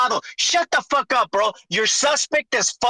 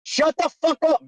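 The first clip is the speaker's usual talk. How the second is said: sharp angry shout; loud sharp voice; 4 semitones higher than usual. Real, not acted. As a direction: yell him into silence. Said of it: "why are you yelling".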